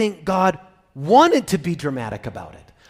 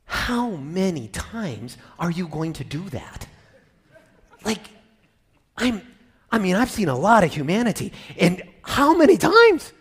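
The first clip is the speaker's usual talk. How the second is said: exasperated; 2 semitones higher than usual. Pretend. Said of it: "the words he's saying are".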